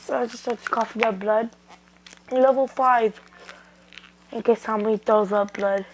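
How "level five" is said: attack call. Acted. Naruto calls next attack level.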